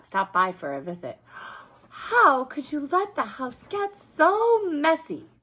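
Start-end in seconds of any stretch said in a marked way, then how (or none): 1.9-5.3 higher, louder scolding parent voice. Acted. Bill's parents scold him about the mess, high and loud. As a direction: scold him like a shocked mom.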